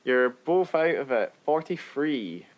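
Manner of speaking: slow, suspenseful reveal; quiz answer reveal. Real, not acted. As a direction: draw out the answer for the guessers. Revealing answer to guessing game.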